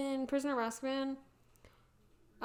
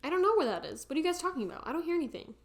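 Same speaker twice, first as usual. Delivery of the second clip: mock innocent denial, pitched higher; feigned ignorance; 5 semitones higher, faster than usual. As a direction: play dumb, as if hearing nothing. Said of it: "It just gaslights them".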